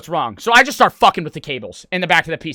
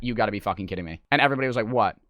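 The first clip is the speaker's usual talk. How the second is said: low, quiet, stunned murmur; deflated disbelief; 9 semitones lower, 6 dB quieter, faster than usual. Retold or imitated. Streamer retelling finding the loose wire, deflated disbelief. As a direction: let it sink down low and soft.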